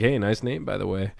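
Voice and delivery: low, soft and creepy; creepy hushed delivery. Retold or imitated. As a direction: say it like a creep leaning in. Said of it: "why would you say it like that?".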